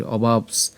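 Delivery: "অবাপস" as o-baaps, softly ending on ps; closing dental s. Shown as a demonstration. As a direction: carry "অবাপস" through to the s. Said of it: "অবাপস পর্যন্ত উচ্চারণ করতে পারি". ("অবাপস" শেষে দন্ত্য স)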